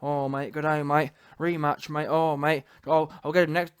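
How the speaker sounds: low-pitched mock Australian accent; hammed-up low Antipodean post-fight patter; Joseph Parker. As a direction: send him up in a low Aussie voice. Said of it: "he's talking about".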